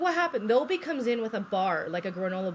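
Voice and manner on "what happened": high-pitched imitation of urgent questioning; retold alarm. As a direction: act out a startled team. Rushing team asks in alarm.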